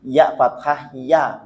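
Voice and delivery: slow, drawn-out "ya" with a clear a; corrected ya. Shown as a demonstration. Teacher corrects a misread letter, slow clear ya. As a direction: spell out "Ya fathah ya" slowly. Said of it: "ya-nya dibaca ya".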